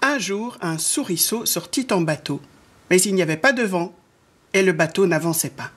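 measured storytelling with lilting phrases; children's story narration. A narrator's reading. Narrator opening a mouse tale for children, storytelling. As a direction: read a picture book aloud to children.

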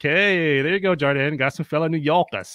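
just a hint of a New York accent, hammed up; mock New York accent. Host greets a fellow New Yorker in a mock New York accent. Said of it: "my New York accent sounds like a Texan".

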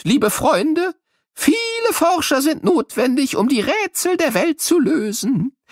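very high, bright cartoon sidekick talking to kids; squeaky little figure, chatty and playful; high-pitched children's show character. Character Albert speaks to children.

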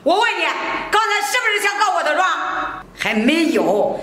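scornful nagging, pushing hard; harsh scolding. Acted. Mother-in-law berates the crying daughter-in-law, harsh scolding.

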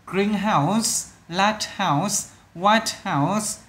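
"Greenhouse, Lighthouse, White House" each stressed on the first part; first-syllable stress. Shown as a demonstration. Teacher summing up three stressed words, first-syllable stress. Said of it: "đều là âm đầu hết".

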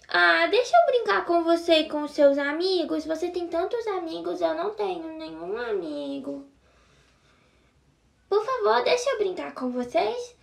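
put-on pleading lonely girl.

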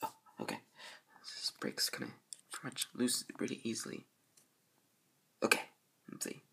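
soft unvoiced whisper. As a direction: whisper it under your breath. Working quietly on wall.

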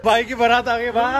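high, loud laughing whoop; loud mock-celebration shout; teasing holler. Real, not acted. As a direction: holler it gleefully, drawing out the last word. Whooping mock procession for friend.

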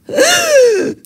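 a sudden high loud gasp like coming back to life; revival gasp. Retold or imitated. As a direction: gasp in air as if waking from death.

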